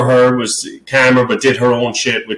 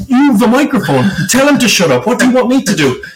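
retold furious snap; 10 semitones higher, faster than usual. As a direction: throw it at him, fed up and fuming. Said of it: "I was fucking fuming".

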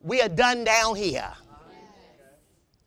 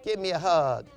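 a hint of a tender wife; coaxing wife. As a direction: gently coax him into a hug.

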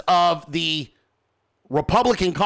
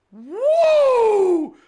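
high whooping cheer; cheering woo; 13 semitones higher, 4 dB louder than usual. Retold or imitated. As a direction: whoop like you escaped. DeSantis cheering in story.

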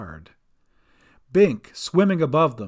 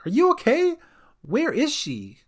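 high, anxious call; yelled; 11 semitones higher than usual. A narrator's reading. Sister Cat checks on Gran from boat, worried call. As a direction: call over, pitched up in concern. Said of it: "yelled Sister Cat from the nearby boat".

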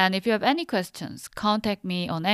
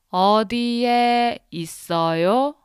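slowly; 3 semitones higher than usual. Shown as a demonstration. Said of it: "Now slowly".

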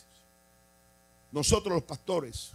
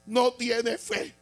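higher, very slow drawn-out no tiene fe, rising on fe; mocking judgment; 7 semitones higher, 5 dB louder, much slower than usual. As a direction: drag out "No tiene fe" like a smug accuser. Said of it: "alguien que se le ocurra decir".

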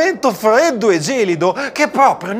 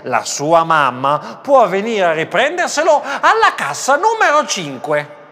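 measured public-address call; cashier's microphone announcement. Acted. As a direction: announce a lost child to the shoppers. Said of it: "Cliccò un pulsante e disse".

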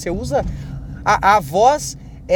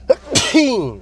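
real sneeze; 7 semitones higher than usual. Real, not acted. Podcaster interrupted mid-explanation, real sneeze. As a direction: let out a sudden high sneeze. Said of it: "eu vou espirrar".

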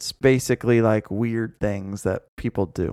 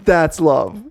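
drawn-out, louder "bro, that's love" in mock awe; mock romantic; 5 semitones higher, 7 dB louder, much slower than usual. Cohost teasing her friend about the corpse lover, loud slow mock awe.

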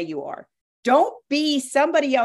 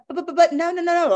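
emphatic protest; 9 semitones higher, 5 dB louder than usual. Retold or imitated. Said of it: "I would say to him every time".

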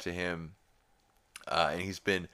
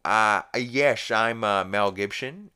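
loud, higher hesitant bluffing voice; Peter; 3 semitones higher, 7 dB louder than usual. Retold or imitated. Peter posing as Mel Gibson at the hotel, halting loud bluff. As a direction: bluff haltingly in a put-on cartoon voice. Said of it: "Peter's like".

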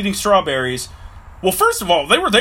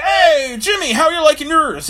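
higher, louder call to a friend; cheery call out; 10 semitones higher, 4 dB louder than usual. Acted. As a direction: call out to Jimmy across the field. Friend calls out to Jimmy.

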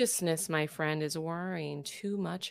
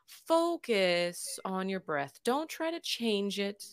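guided meditation. Acted. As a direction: lead the breathing gently, unhurried. Leads a breathing meditation.

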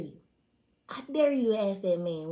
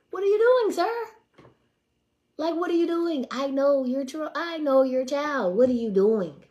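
high, loud, outraged what are you doing; shocked disbelief; 7 semitones higher, 9 dB louder than usual. Retold or imitated. To a married man hitting on her, high outraged disbelief. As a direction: recoil in disgust at the old man.

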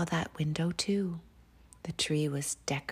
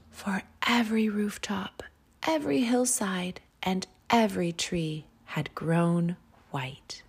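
whispered story; 2 semitones higher than usual. A narrator's reading. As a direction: breathe the story out gently. Whispered bedtime story reading.

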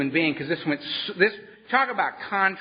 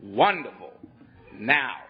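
smiling sponsor; 6 semitones lower, slower than usual. Retold or imitated. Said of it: "he smiles, and he says".

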